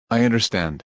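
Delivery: subdued, mildly deflated reply; understated discouraged answer; a little discouraged. A narrator's reading. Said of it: "Kaneki a little discouraged says".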